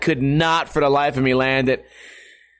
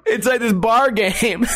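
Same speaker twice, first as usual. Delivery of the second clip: words squeezed out between laughs; can barely get the phrase out for giggling; laughing through it; 4 semitones higher, slower than usual. Real, not acted. Vlogger cracking up at his own cornhole joke, laughing.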